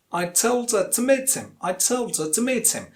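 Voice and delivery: "her" and "him" without h, linked on; weak forms, linked. Shown as a demonstration. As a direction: stress "told" and "meet", reduce "her" and "him". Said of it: "Im is a weak form of him".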